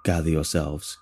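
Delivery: low, grave summons from speakers; alien leader rallying. Acted. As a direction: call the faithful to rise.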